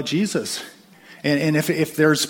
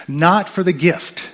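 Not for the gift, slow, higher and louder; emphatic slow stress; 5 semitones higher, 6 dB louder, much slower than usual. Acted. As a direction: hammer each word of Not for the gift. Preacher stresses his point.

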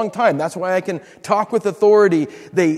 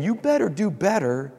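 stern God; 3 semitones higher than usual. Pretend. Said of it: "To think that God's saying".

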